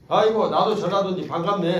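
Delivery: hearty mock delight; delighted greeting. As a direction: greet him with glee.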